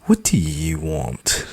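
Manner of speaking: condescending groaning snob; snobby voice. Acted. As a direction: sigh it out like a snob. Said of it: "groans in her highbrow, condescending, snobby snob voice".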